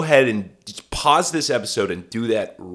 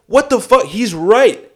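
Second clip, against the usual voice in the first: angry Orson Welles; 3 semitones higher, 4 dB louder than usual. Retold or imitated. Indignant Welles voice.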